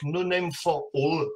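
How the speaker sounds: a hint of a Texan twang on the band name; jokey Texan English on the name; mock Texan accent. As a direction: say the band name with a lightly put-on Texan accent. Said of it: "ça, c'est pour mon accent texan".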